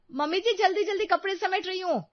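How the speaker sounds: put-on very high young-woman voice; high-pitched, defensive reply; high call back. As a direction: answer mother-in-law hurriedly from afar. Daughter-in-law calls back from roof.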